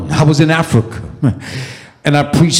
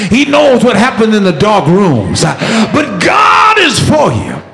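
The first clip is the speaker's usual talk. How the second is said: full-force preaching; 4 semitones higher than usual. Acted. Preacher assuring congregation God is for them, full-force preaching. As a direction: drive each phrase, then cry out the last.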